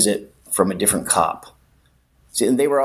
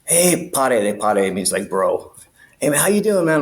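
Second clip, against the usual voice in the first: chummy cop; 3 semitones higher than usual. Retold or imitated. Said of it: "he's like".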